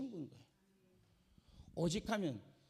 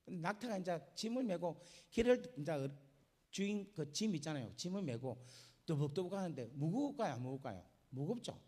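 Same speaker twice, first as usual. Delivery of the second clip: usual speaking voice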